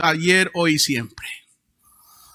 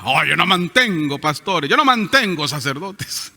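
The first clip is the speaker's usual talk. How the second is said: mocking quote; 3 semitones lower than usual. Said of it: "palabra de diezmo hasta burla".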